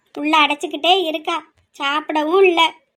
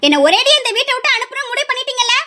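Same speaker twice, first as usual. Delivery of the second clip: higher, cutting and resentful; bitter sarcasm; 5 semitones higher than usual. Acted. Daughter mocks her mother over the fixed wedding, bitter. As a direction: sneer at them for rushing the marriage.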